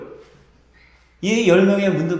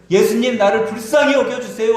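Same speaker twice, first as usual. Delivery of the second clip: raised, higher pleading call; retold shout; 5 semitones higher, 5 dB louder than usual. Men calling to Jesus from afar, retold as a raised plea. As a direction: mildly act out men calling for mercy. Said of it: "남자들이 소리를 지르는데 자기를".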